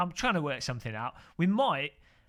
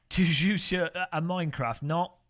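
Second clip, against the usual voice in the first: mock French; 2 semitones higher, 6 dB louder than usual. Mock French talk to a viewer.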